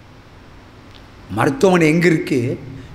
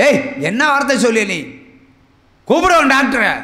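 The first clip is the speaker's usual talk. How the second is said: loud, high, fast angry yell; angry threat; 7 semitones higher, 5 dB louder than usual. Retold or imitated. Husband yelling at the nurse in the hospital, angry threat. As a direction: threaten her, demanding the doctor.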